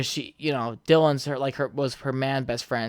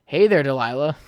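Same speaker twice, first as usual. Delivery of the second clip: put-on old tone voice; 4 dB louder than usual. Shown as a demonstration. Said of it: "in my old tone voice".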